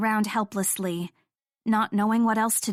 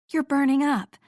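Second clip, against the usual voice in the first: higher, louder alarmed remark; startled by his fever; 5 semitones higher, 3 dB louder than usual. Acted.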